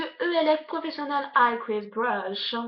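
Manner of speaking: product name slowly in French-accented English; careful attempt at an English accent. Real, not acted. Reading the brush's name to viewers, English accent. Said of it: "mon accent anglais".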